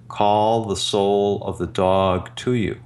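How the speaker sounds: slow, calm, otherworldly instruction; like a gentle voice from within, unhurried; inner guiding voice. Retold or imitated. Inner voice guiding the healer in meditation, slow and calm. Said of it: "And now the voice said".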